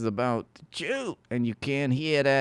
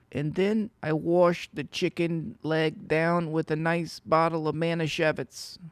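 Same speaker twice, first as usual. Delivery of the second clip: Lecter parody; 5 semitones higher than usual. Retold or imitated.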